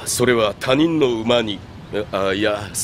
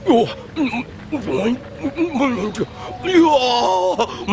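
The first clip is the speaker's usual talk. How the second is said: mouth full; 9 semitones higher, much slower than usual. Acted. Wolfing down grilled meat.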